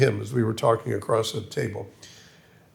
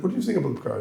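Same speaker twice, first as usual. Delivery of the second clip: Berlin imitation; 2 semitones higher, 4 dB quieter, much faster than usual. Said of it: "I'll try to".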